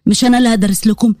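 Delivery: low teasing grown-up scolding a clumsy student; Yazan teasing gently. Acted. Yazan teasing Huda after she hits the wall, low and amused.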